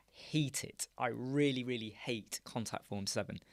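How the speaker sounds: hissed under the breath; a private whispered grumble; whispered dislike. Real, not acted. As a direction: whisper your distaste for it. Grumbling about Contact Form seven.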